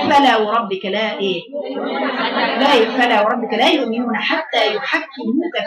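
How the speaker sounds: slow, carefully articulated Quranic recitation. Shown as a demonstration. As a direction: recite slowly, showing each letter's exit point. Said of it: "شوفي لما تقولي بقى".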